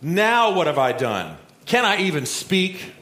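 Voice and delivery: whiny little brother. Retold or imitated. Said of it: "He goes".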